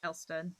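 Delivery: "Elston" said with no H, for Helston; Cornish dropped H. Retold or imitated. Streamer mimicking how a Cornish local names the town. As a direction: say "Elston" and drop the H. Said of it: "talking to a Cornish person, they'll be like".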